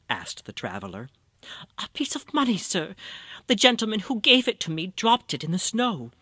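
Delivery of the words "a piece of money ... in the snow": put-on high old woman voice. Blind beggar answers traveler.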